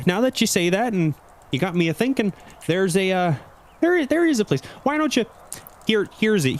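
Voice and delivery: put-on high folksy old dock master. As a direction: ramble kindly like a rural old-timer. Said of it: "the dock master goes".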